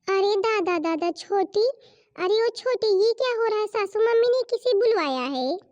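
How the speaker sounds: high call across the yard to छोटी. Acted. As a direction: shout for the younger daughter-in-law, alarmed. Calling out to the younger daughter-in-law. (छोटी बहू को ऊँची आवाज़ में पुकारना)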